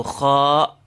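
kha with a long, back ah; full-letter sound. Shown as a demonstration. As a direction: draw kha out like the ah in car. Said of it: "equivalent to the sound of the A R".

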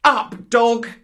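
put-on high, loud boy's order; commanding cry. A narrator's reading. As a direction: order the beast up with contempt. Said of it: "Mowgli cried".

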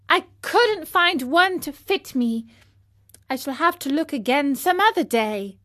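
lightly voiced puppet covering up; boy's excuse. Pinocchio answers his father, covering up.

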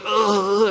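drawn-out groan of someone oppressed; mock groan; imitated groan. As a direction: mimic a sleeper's troubled groan. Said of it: "these guys are like".

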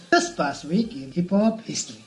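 presenter's segment intro; radio voice. Shown as a demonstration. Host shows co-hosts how he says the segment line, radio voice. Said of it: "It's like this".

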